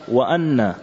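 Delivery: وأن said "wa-an"; fatha on the hamza. Shown as a demonstration. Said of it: "الثانية بالفتح أيضا".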